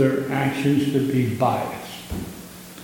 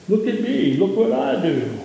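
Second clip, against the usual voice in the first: mock boastful; 7 semitones higher than usual. Mocking boastful Pharisees.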